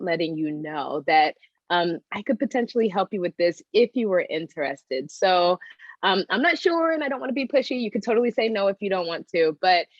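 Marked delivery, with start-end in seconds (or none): 6.0-9.9 apologetic. Real, not acted. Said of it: "it felt a little bit like you were apologizing".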